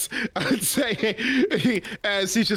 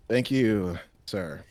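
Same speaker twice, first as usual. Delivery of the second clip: lowered polite voice; low polite reply; 6 semitones lower than usual. Acted. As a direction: mumble polite thanks. Ransom replies politely.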